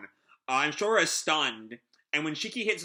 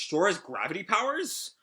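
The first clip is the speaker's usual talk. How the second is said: higher-pitched alarmed question, lightly acted; mild panic; 6 semitones higher than usual. Sister realizing whose power it is, mild panic. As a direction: ask it with a touch of panic. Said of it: "Sister kinda panics".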